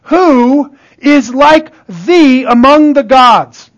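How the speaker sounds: slow, drawn-out scripture quote; scripture recitation. Acted. Preacher quoting Exodus to the congregation, slow recitation. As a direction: recite it slowly, stretching the words. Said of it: "the scripture says things like this about God".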